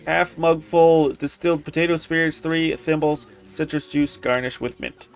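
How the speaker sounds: low, soft read-out; reading notes aloud. Acted. Player reading Volo's drink notes, low read-out. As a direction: read out the jottings softly.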